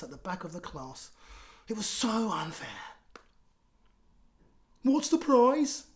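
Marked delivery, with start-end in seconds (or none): 4.8-5.8 higher, louder, slow demanding question; shouted question. Acted. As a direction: call it out from the back. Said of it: "shouted moody Margaret".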